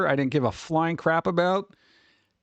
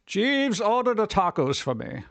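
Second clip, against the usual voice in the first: lofty butler-ordering voice; bossing the butler around; posh master; 4 semitones higher than usual. Retold or imitated. Commanding a butler.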